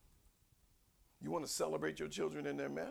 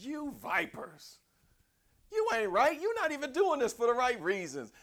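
stern rebuke; 10 semitones higher, 9 dB louder than usual. Retold or imitated. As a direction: scold them like a fiery prophet. John the Baptist rebuking crowds.

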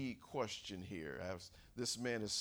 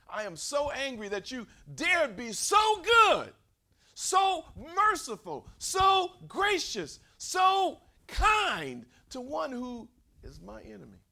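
high, loud, slow furious yell; furious shout; 13 semitones higher, 13 dB louder, slower than usual. Acted. Jonah shouting at God for sparing enemies, furious. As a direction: bellow it as if outraged at mercy. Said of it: "how angry he is".

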